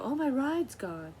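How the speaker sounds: high, slow whiny panic; mock panic. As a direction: mimic her wailing about the ride. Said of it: "she was freaking out".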